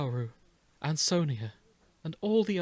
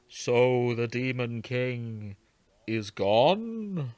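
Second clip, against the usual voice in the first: astonished; 3 semitones lower, much slower than usual. Acted.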